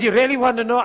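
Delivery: sly mock-conspiratorial offer; teasing. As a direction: dangle the secret, chuckling. Teasing a pastor friend.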